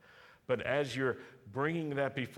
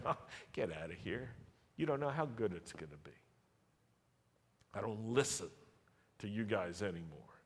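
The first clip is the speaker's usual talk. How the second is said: softer, fast, shrugging it off; dismissive brush-off; 4 dB quieter, faster than usual. Acted. Believers brushing off discouragement, quick and softer. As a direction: wave it away lightly, quick and unbothered. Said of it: "We say".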